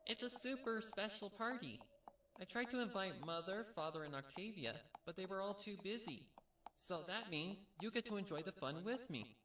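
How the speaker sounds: high and loud, bursting with party excitement; giddy big sister inviting her little sister; excited Pinkie. Acted. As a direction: bounce through it like an eager filly. Pinkie voiced, excited about party.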